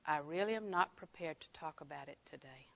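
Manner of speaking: soft, low and measured; gently decline, voice dropped right down. Shown as a demonstration. Teacher showing how to step back from a fight, gently. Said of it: "lower your voice, and gently say".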